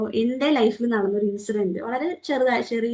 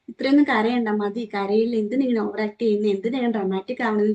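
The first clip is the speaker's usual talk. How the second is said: impatient rushed scolding. Acted. Acted impatient scolding of crier.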